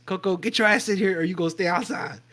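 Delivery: loud call out the door; calling the dog. Retold or imitated. Storyteller yelling for his dog Coco to come inside, loud call. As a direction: yell for Coco to get inside.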